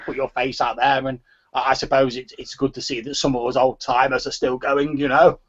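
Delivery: lightly voiced old man, rambling. Old man grumbling about attending functions, lightly voiced and rambling. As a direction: potter through it as a chatty old man. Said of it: "the voice of an old man".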